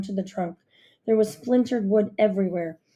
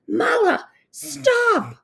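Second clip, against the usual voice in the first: much higher urgent shout; 14 semitones higher, 4 dB louder, much slower than usual. A narrator's reading. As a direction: yell to stop the bear. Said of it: "I shouted".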